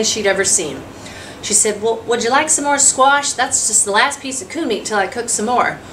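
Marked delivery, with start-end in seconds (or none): 1.8-5.8 a hint of a hospitable wife, pitched up; folksy offer in a slightly higher voice; lightly voiced homestead wife. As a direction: lightly act a country hostess offering seconds. Voices Emma offering more food.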